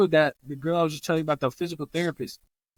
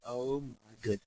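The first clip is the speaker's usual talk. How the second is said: hushed, low smiling amazement; audible smile; 4 semitones lower, 11 dB quieter than usual. Retold or imitated. Therapist seeing patient walk in, audible smile. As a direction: let a smile into soft, low wonder. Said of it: "you could hear him smiling".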